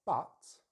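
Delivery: strong, separate "But"; contrastive stress. Shown as a demonstration. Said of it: "I'm gonna stress the but".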